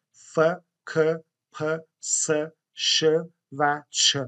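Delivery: "ف، ک، پ، س، ش، چ" as separate sounds, not letter names; voiceless consonant sounds. Shown as a demonstration. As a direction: sound out each from "ف" to "چ" with pauses between. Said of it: "صامت باشه، بدون صوت باشه".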